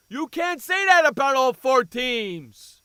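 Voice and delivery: loud, slow, indignant shout; angry protest. Real, not acted. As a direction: slam down the claim, outraged. Angry rebuttal to the quote.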